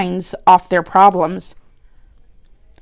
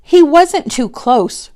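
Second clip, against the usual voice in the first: protesting; 6 semitones higher, slower than usual. A narrator's reading. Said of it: "Rosie protested".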